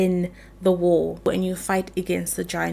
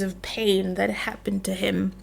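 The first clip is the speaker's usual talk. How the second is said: whispered sadness; 7 dB quieter than usual. Real, not acted. Whispered sad ending.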